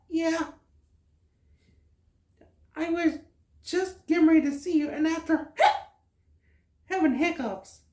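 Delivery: high little star voice, broken by hiccups; baby star voice. Acted. Woohoo tells Gaming why he hiccups, in a high baby voice. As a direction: play a tiny hiccuping star, sweet and innocent.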